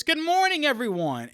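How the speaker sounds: high, sing-song cabin crew hello; mock flight attendant greeting. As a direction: chirp it like a showy steward.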